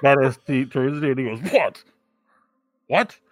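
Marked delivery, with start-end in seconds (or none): 1.5-3.2 challenging what. Acted. Badass T turns on the player.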